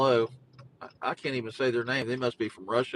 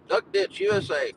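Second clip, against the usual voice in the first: mock slogan; 5 semitones higher than usual. Real, not acted. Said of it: "Just like I call Goose Creek".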